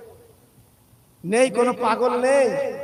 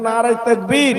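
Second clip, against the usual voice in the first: louder crowd-leading slogan at usual pitch; loud takbir call; 6 dB louder than usual. Shown as a demonstration. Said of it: "জোরে তাকবীর দেন". (জোরে তাকবীরের ডাক)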